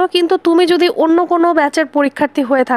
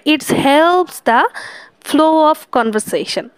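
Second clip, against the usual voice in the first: slow dictation; much slower than usual. Shown as a demonstration. Slow dictation of English definition.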